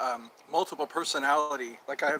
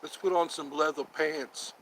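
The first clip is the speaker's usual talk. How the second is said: slow mock-tough line; slow tough talk; slower than usual. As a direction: drag it out like a hard guy. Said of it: "talk tough to each other".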